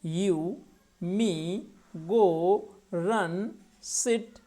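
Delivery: "you", "me", "go", "run", "sit", each said in one unbroken beat; one-syllable demo. Shown as a demonstration. Teacher listing one-syllable words, each in a single separate beat. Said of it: "एक ही बार में बोलेंगे".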